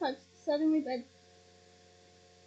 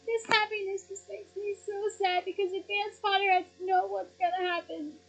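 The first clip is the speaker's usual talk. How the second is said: higher, softer voice on the edge of tears; tearful fan, happy and sad at once; starting to cry; 5 semitones higher, 3 dB quieter than usual. Real, not acted. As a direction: let the sadness catch in your throat. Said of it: "why I'm starting to cry".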